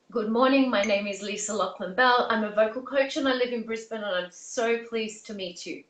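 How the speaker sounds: a hint of a polite formal address; lightly voiced formal greeting, crisp and proper; formal polished tone. Shown as a demonstration. Vocal coach greeting the Prime Minister, lightly formal and polite. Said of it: "that would be the accent and the tone that I would use".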